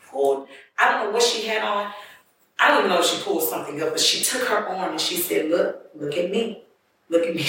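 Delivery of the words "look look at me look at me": put-on drunk slurred voice. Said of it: "her voice was slurred".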